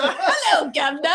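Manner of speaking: laughing British greeting, pitched high at first; hammed-up British hello; mock British. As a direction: play up a silly British accent. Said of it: "What can I do with an accent?".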